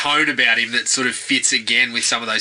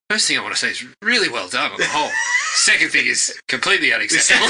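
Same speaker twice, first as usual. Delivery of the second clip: laughing quote; faster than usual. Retold or imitated. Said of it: "he's like".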